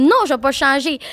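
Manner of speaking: mildly indignant retold refusal; firm no with a touch of rage; retold ranting. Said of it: "de rager". (refus un peu fâché, rejoué)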